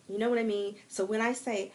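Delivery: normal talking voice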